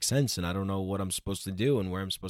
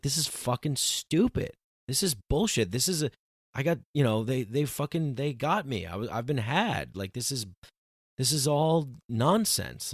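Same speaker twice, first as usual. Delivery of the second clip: higher-pitched, disgusted retold rant; angry rant about being had, higher in pitch; retold anger; 4 semitones higher than usual. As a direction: vent like you've been conned. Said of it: "I felt so angry".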